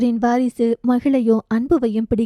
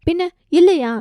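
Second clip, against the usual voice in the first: higher, louder mock retort; teasing retort; 6 semitones higher, 3 dB louder than usual. Aunt teasing her niece, a louder, higher mock retort. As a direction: toss it back with a tease.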